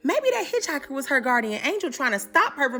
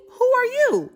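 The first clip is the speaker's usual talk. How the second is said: higher, louder; alarmed demand; 10 semitones higher, 5 dB louder, slower than usual. Retold or imitated. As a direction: demand it sharply. Woman demanding.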